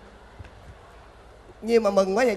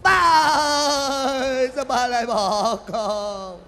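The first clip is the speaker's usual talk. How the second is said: high, loud, slow wail half laughing; hired mourner cracking up mid-wail; laughing sob; 3 semitones higher, 3 dB louder, much slower than usual. Acted.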